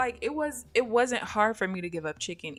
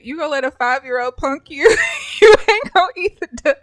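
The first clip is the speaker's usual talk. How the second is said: loud, higher mock-outraged yell; teasing shout; 7 semitones higher, 14 dB louder than usual. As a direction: egg him on, laughing. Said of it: "I said".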